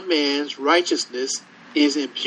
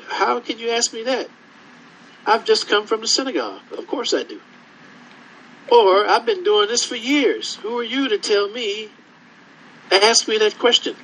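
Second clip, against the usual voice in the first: higher-pitched, mildly affronted official; mock indignation; 5 semitones higher than usual. Eunuch bristling at Philip's question, mock indignation. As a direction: act put out at being questioned. Acting out an offended religious authority.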